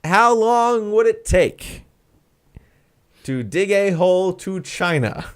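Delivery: slow, high announcer read; dramatic question read. Acted. Host reading the Nightcap question dramatically. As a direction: drag out the big question.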